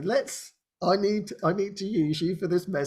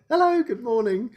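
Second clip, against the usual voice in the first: bright, higher sing-song greeting; chirpy morning hello; 7 semitones higher than usual. Shown as a demonstration. Showing how easily she greets the morning, chirpy. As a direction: pop up cheerful and wide awake. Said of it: "It doesn't take much for me to just go".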